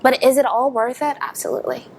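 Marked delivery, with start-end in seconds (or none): 1.2-1.9 1 soft, breathy. Real, not acted. Answers her own question.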